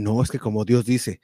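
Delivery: mock-divine Castilian Spanish accent; a touch of put-on Castilian pronouncement; imitated Spain accent. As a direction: lightly imitate preachers putting on a Spain accent. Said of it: "ya le ponían este acento español".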